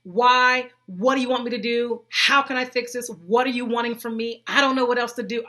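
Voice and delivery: loud, pleading questions, reliving the desperation; desperate pleading. Retold or imitated. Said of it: "I did a whole lot of asking why".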